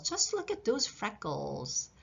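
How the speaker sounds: gentle soft echo of the line. Shown as a demonstration. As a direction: say "Just look at those freckles." again, softly.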